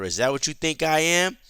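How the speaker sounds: lightly acted affronted woman; indignant. Acts out Janice's indignant question.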